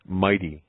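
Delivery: mildly forceful stress on "Mighty"; emphatic. Acted. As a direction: answer "Mighty" with growing conviction. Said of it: "he said more emphatically".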